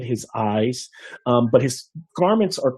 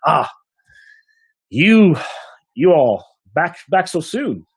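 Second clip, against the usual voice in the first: surprised innkeeper; 6 semitones higher, slower than usual. Acted. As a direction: greet the returning party with surprise. Innkeeper greeting returning party.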